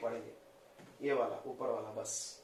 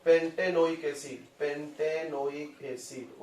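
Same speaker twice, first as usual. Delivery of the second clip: slow repeat; slower than usual. Shown as a demonstration. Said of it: "इसका नाम होगा".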